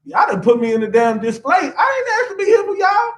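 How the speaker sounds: lightly voiced gorilla, indignant and pleading, shouting in spots; a hint of a wronged gorilla protesting; gorilla's voice. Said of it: "he, the gorilla".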